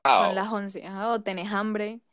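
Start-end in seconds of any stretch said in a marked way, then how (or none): 0.0-0.8 "las" said as "laj", a breathy J in place of the S; Cali accent. Shown as a demonstration. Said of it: "cambiamos la S por J".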